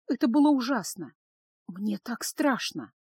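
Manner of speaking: slowing into a scared confession; frightened. Acted. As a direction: confide your fear, drawing the words out. Frightened girl confides in heroine.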